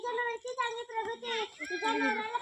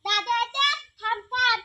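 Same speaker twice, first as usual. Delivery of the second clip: louder, calling after him to wait; 6 dB louder than usual. Acted. Sister calls her brother to stop, loud call. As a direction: call out so he stops.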